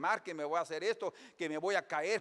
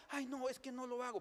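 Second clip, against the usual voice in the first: put-on timid old man; 7 semitones higher, 8 dB quieter than usual. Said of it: "un viejo ya está".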